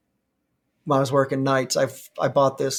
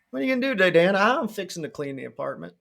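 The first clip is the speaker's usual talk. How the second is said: Southern fixin'; 4 semitones higher, faster than usual. Retold or imitated. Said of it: "I still say fixin'".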